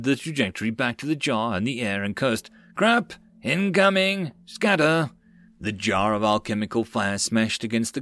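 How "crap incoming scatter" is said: shouted warning. A narrator's reading. Soldier warns of incoming fire.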